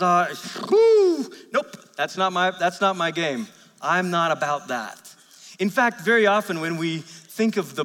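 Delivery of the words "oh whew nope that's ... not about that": squeamish God. Retold or imitated. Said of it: "that says".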